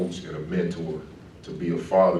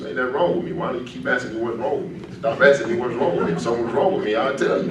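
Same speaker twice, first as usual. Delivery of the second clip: higher-pitched mock protest, rising on each wrong; retold defensive outburst; 6 semitones higher, faster than usual. Player to coach who keeps asking, higher-pitched defensive retort. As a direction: replay your teenage self pushing back at the coach.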